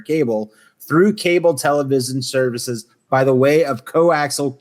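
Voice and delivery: measured read-out of an encyclopedia entry; reading aloud. Real, not acted. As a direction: recite the facts like a reference article.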